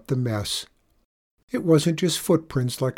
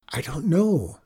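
hesitant, higher-pitched reply; slow answer; 4 semitones higher than usual. Acted. Girl answering her sister's accusation, slowly. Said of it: "I answered slowly".

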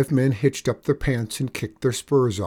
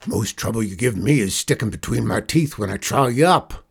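louder cowboy outlaw voice; scornful outlaw boss; 5 dB louder than usual. Acted. Outlaw boss threatening to eat the boy, scornful. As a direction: chew out the little upstart.

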